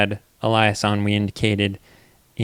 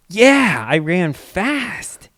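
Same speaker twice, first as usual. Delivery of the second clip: put-on talking to toddler; 9 semitones higher, 5 dB louder, much slower than usual. Dad answering toddler.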